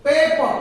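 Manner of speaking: "Paper" stressed on its first syllable; accented first syllable. Shown as a demonstration. Teacher showing the accented syllable, "Paper" stressed up front. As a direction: come down hard on "Pa" in "Paper". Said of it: "in the first syllable".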